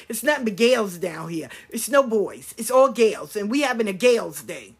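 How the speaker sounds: imitated country-like accent, leaning on "gals"; sister's country-sounding accent. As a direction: mimic the sister's twangy accent with emphasis. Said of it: "where they get their accent from".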